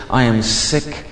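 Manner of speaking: low, slow, weary confession; understated despair, heavy pauses between phrases; retold despair. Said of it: "it's so bad I would say to my princess".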